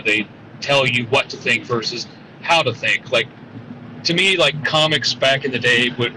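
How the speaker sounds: caller speaking from a car; phone audio from a moving car; car speakerphone. Real, not acted. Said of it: "I'm driving".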